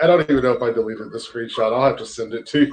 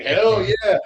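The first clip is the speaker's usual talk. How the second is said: excited cheer; 7 semitones higher than usual. Retold or imitated.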